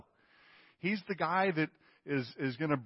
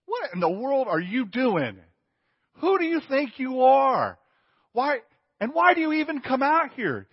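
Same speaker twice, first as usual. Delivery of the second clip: much higher, much louder mocking challenge; taunting giant; 8 semitones higher, 8 dB louder than usual. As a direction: bellow the taunt like a giant daring the army. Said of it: "Essentially what he's saying is".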